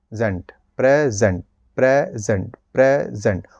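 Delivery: प्रे then ज़ेंट, then प्रेजेंट whole and light; syllable-split drill; split word. Shown as a demonstration. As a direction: break प्रेजेंट in two, then join it. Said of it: "इसके प्रेजेंट के दो टुकड़े कर लीजिए".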